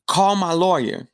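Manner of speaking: firm demand. Retold or imitated. Prisoner demands guard call lawyer.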